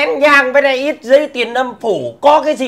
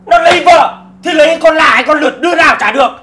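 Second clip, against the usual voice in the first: exasperated raised voice; 4 semitones higher, 4 dB louder, faster than usual. Acted. Quarrel, raised voice.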